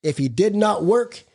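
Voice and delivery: measured, deliberate reading from the book; reading aloud. Acted. Speaker reads the Big Book passage to the group, measured. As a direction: read the passage slowly and weightily.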